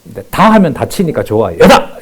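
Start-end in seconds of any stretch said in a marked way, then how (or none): 1.6-2.0 high, loud 여다!; shouted slogan. Shown as a demonstration. Preacher demonstrating the cheer to the congregation, loud high shout. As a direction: cry 여다! as a team chant. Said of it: "이러면 돼요".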